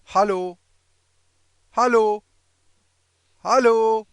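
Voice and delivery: loud repetition drill. Shown as a demonstration. Teacher models the German greeting for learners to repeat, loud and high. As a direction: call it out for the class to repeat.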